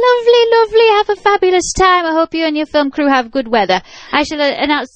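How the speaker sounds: high, lilting mock Irish priest; Irish accent easing down from very high; imitated Irish priest. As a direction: play an effusive Irish village priest. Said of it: "he said".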